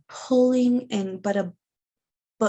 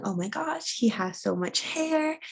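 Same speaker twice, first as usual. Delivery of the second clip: higher, amazed exclaim that starts soft; amazed gush; 4 semitones higher, 3 dB quieter than usual. Retold or imitated. Partner marveling at the newborn's hair, higher amazed gush. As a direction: gush over the baby's hair.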